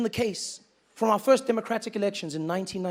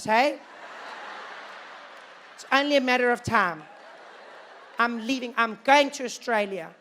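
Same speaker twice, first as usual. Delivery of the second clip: higher, anxious fretting voice, not whispered; worried emigrant; 4 semitones higher, 3 dB louder than usual. Retold or imitated. A worried white South African telling Mary he's leaving, fretting. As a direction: fuss and fret about leaving.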